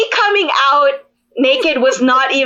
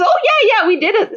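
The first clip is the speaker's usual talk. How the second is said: a light take on him, laughing it off; mock boyfriend reassuring; 9 semitones higher, faster than usual. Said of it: "He goes".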